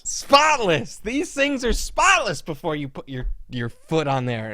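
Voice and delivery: comic outrage; indignant. Real, not acted. Indignant echo of listener's word.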